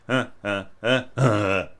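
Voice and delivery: stomach pushes. Shown as a demonstration. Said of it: "pushing with their stomach to get this accent".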